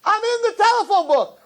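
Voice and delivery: high, loud and laughing; hammed-up proud shout; triumphant yell. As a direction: crow it to the whole street. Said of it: "He says".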